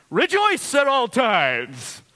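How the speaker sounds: put-on high, loud, drawn-out childish cry; mock wail. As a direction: bawl the command like an overwhelmed child. Mock wailing at Scripture's command.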